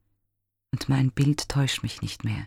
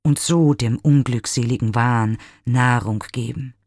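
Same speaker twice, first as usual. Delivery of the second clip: higher, louder pleading outcry; desperate cry; 3 semitones higher, 3 dB louder than usual. Acted. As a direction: cry out after the fading image. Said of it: "schrie er". (verzweifelter, lauter Aufschrei)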